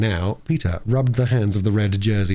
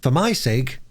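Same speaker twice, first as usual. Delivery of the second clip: put-on a little steadier, moderately high girl's voice; Bobby echoing the plea; 4 semitones higher, slower than usual. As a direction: echo it as the calmer older child. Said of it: "repeated Bobby".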